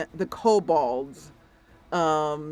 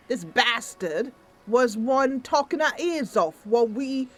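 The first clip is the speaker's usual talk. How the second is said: lightly voiced grumbling gnome leader; a hint of a put-upon gnome; made-up gnome voice; 5 semitones higher than usual. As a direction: complain in a slightly raised character voice. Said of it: "I'm just making up this voice".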